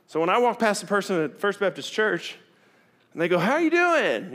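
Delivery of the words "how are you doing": high, bright churchy hello; chirpy greeting. Retold or imitated. Churchgoer greets him, high cheery hello.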